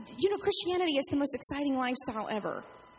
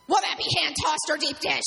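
pizza order taker; 3 semitones higher, 6 dB louder than usual. Retold or imitated. Pizza order taker answering phone.

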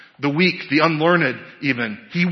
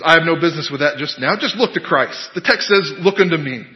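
light rustic Essex preacher; quick start, mild Essex accent. Acted. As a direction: preach plainly with a hint of Essex. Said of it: "in his Essex accent".

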